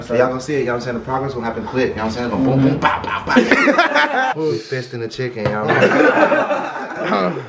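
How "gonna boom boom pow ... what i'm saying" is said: excited. Real, not acted. Hyped cooking intro with laughs.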